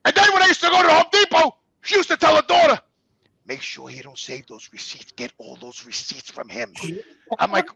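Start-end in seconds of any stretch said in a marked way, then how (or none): 0.0-2.8 high, loud and aggrieved; real angry rant. Real, not acted. Husband telling how he was put to work, real angry rant. 3.5-6.7 low, very soft conspiratorial voice; imitated hushed order. Mother secretly instructing her daughter about receipts, imitated hushed order.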